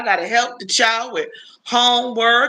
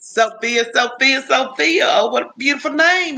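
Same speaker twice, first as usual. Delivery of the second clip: savoring a name; 5 semitones higher than usual. Real, not acted. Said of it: "I love saying that".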